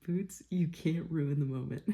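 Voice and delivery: laughing while calling the dog. Real, not acted. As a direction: giggle the dog's name. Laughing at dog ruining moment.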